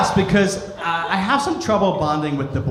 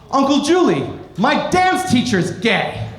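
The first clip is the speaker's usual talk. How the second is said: put-on higher, little-girl tone; lightly voiced young niece; 5 semitones higher than usual. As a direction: play the niece, matter-of-fact.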